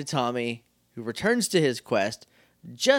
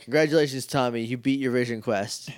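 mock winded; 4 semitones lower than usual. Old man pulled up from a cliff, lightly winded. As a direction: puff the words out, lightly winded. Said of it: "He's super winded".

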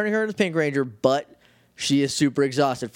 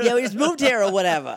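put-on Boston accent; 8 semitones higher than usual. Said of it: "We should stop the Boston accents now".

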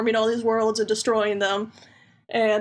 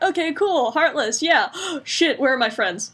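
panicking Sora voice; 3 semitones higher than usual. Retold or imitated. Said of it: "he's just like".

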